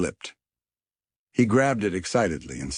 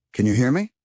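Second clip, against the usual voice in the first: calling out; 7 semitones higher, 5 dB louder, faster than usual. A narrator's reading. Yelling into earpiece.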